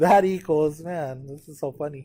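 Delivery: giggling, speaking through laughter mid-sentence. Explaining notes while writing, laughing while talking. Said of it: "I'm laughing because I'm wondering".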